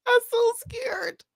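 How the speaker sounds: scared whisper. Real, not acted. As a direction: draw it out in a nervous whisper. Nervous to press play on video.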